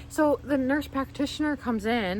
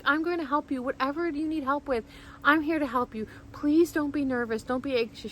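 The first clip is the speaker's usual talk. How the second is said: slightly raised, soothing imitation; reassuring nurse; 4 semitones higher than usual. Nurse offering help to scared patient, soothing imitation. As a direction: gently promise help, pitched up a little.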